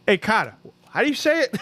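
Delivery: calling for help. Retold or imitated. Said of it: "And I go".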